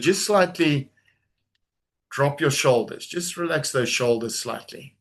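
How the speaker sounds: calm, unhurried guiding voice; guided meditation. Acted. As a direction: lead them gently into stillness. Leads a guided calming exercise.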